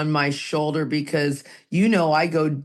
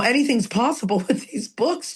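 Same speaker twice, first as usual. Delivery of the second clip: laughing; 6 semitones higher than usual. Real, not acted. Amused aside to co-host.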